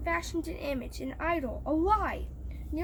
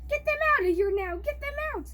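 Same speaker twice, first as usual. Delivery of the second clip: loud, fast, rising command; king cries out; 10 semitones higher, 5 dB louder, faster than usual. A narrator's reading. The king ordering the three men out of the furnace, loud panicked shout. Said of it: "the king cried".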